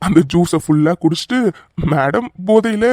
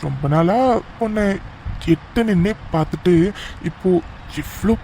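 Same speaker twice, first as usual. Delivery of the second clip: tender romantic; 3 dB quieter than usual. Acted. Husband close to wife at last, tender and intimate. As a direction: confess it tenderly, taking your time.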